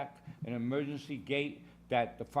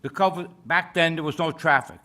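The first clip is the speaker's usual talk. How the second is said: loud projection; 3 semitones higher, 6 dB louder than usual. Real, not acted. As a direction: project to the whole room. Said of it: "sorry if I speak loud".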